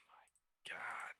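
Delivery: breathy whisper after a sigh; whispered despair. Real, not acted. Trader sighing at the chart in a whisper. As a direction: let it out as a defeated whisper.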